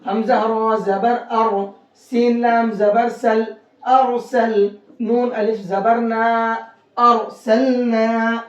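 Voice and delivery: slow spelling, syllables stretched to "अरसलना"; heavy Ra. Shown as a demonstration. Teacher practising with students, heavy Ra recitation. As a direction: round "अर" thickly and hold the final "naa". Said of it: "इस रा को मोटा करके पढ़ेंगे".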